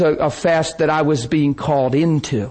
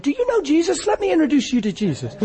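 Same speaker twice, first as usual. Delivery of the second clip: high, mock-pious sarcasm; mock preachy comeback; sarcastic retort; 11 semitones higher, faster than usual. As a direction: throw it back with fake piety. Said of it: "I'd have probably said".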